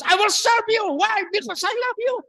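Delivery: high, urgent declaration; emphatic eager answer. Acted. Answering as a true child of God, high and emphatic. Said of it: "Yan ang sagot ng tunay na mga anak ng Diyos".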